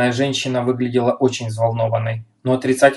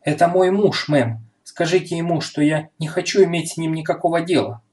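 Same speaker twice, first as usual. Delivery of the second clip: sharp, indignant outburst; angry; 5 semitones higher than usual. Acted. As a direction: hurl it back, fed up and furious. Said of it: "раскрасневшаяся от гнева особа".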